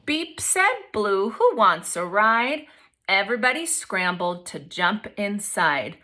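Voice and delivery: expressive picture-book read-aloud; reading to children. A narrator's reading. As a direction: read it to the class with lively voices.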